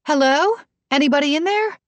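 high call through a door. A narrator's reading. Asha calling through the trainer's room door, high call.

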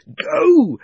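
high, loud urgent shout. A narrator's reading. Diggory shouting to Polly while holding the witch's heel, shout. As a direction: yell the command out. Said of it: "shouting to Polly".

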